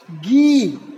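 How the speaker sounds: गी said alone, clear and deliberate; teacher sounding out the first syllable of गिलास; syllable gi demo. Shown as a demonstration. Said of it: "पहले आपके मुंह से निकल रहा है ग और फिर ई".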